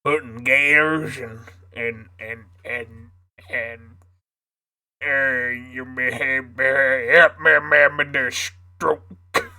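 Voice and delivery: southern voice. Pretend. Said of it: "my southern voice".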